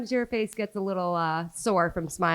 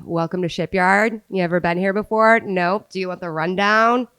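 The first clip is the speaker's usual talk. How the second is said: go-to server pitch; 2 semitones higher, 9 dB louder than usual. Shown as a demonstration. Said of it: "my go-to pitch is".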